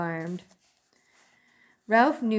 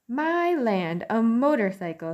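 put-on higher, louder startled old aunt; surprised old aunt; 4 semitones higher, 5 dB louder than usual. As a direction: gasp at the news.

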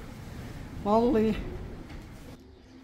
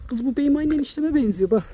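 usual speaking voice

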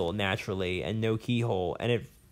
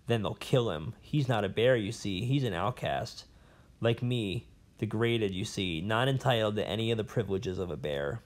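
a lightly voiced old scholar, rambling and bitter; a hint of a cranky old professor holding forth; jailed old professor. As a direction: play the disgraced academic nursing his grudges. Professor answers Lyra.

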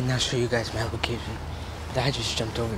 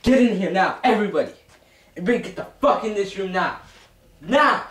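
shouted orders; 5 semitones higher, 4 dB louder than usual. Acted. Herding hostages into room.

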